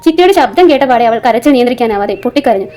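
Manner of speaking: measured audio-story reading with lightly voiced dialogue; story narration. A narrator's reading. Reads an episodic story aloud. (കഥ വായിച്ചു പറയുന്ന ശൈലി)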